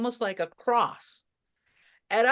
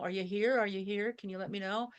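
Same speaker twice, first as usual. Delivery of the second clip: hushed, gentle calling out to the departed; calm quiet asking; 5 dB quieter, faster than usual. Shown as a demonstration. Sitting calmly, asking lost loved ones if they are near, softly. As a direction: ask softly and patiently, as if listening for a reply. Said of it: "Just sit calmly and ask them".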